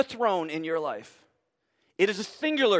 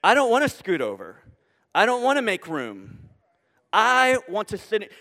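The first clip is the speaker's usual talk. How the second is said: firm Jesus voice; 3 dB louder than usual. Retold or imitated. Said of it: "And Jesus says".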